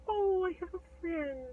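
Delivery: high, slow tender coo; sweetly moved, drawn out; touched giant. Acted. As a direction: melt with wonder at a first friend. Giant touched by kid's kiss.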